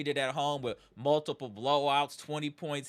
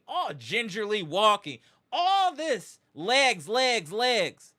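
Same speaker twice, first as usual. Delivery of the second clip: exasperated emphasis; 4 semitones higher, 3 dB louder, slower than usual. Real, not acted. Host listing star's injury signs to fans, exasperated emphasis. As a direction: pitch jumping up on each punched word.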